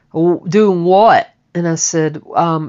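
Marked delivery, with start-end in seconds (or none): 0.1-1.3 angry father. Retold or imitated. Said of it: "he was very pissed off".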